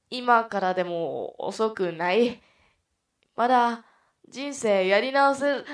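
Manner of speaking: loud, slow, building earnest plea; detective persuading. Acted. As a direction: plead with a hostage-taker, rising in pitch. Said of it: "立てこもり犯を説得するが、". (大声でゆっくり訴える刑事の説得)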